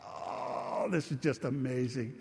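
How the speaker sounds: breathless, hushed wonder; awed whisper. Retold or imitated. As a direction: whisper it in awe. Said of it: "and I was just like".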